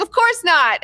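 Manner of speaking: high mock innocent. Gavin's reply, acted.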